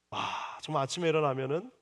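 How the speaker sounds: ordinary talk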